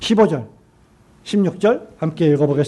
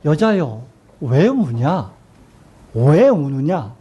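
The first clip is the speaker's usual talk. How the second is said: lower, slow, kind question; not a scolding; 4 semitones lower, much slower than usual. Acted. Jesus kindly asking Mary why she weeps, lower and slow. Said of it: "혼내려고 하는 책망이 아니라".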